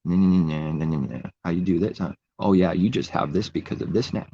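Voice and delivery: mock nosy taunt, singsong nahs first; mocking, nosy know-it-all; nosy mocking heckler. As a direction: imitate a nosy doubter needling. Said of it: "natural man's gonna get nosy and say".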